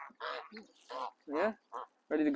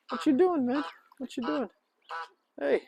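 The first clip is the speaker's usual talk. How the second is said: much higher voice cooing at the bird; 9 semitones higher than usual. Real, not acted. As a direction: tease the flapping duck playfully. Talking to a frantic bird.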